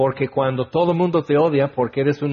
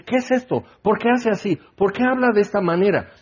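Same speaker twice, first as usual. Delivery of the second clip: amazed crowd questions; 6 semitones higher, faster than usual. Retold or imitated. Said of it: "Y la gente dice".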